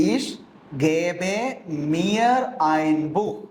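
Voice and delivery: Ich, gebe, mir ein Buch, each word set apart, gebe rising; slow, word by word. Shown as a demonstration. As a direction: spell out the sentence word by word for learners. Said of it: "അതെങ്ങനെ വരും?". (വാക്ക് വാക്കായി പതുക്കെ)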